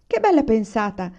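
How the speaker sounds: loud, pleased cry; joyful shout. Acted. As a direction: call it out with glee. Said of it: "gridò papà".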